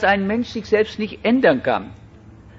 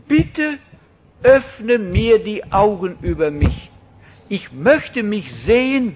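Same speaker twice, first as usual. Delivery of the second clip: earnest prayer. Acted. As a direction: pray as if asking God to open your eyes. Preacher voices a sinner's prayer.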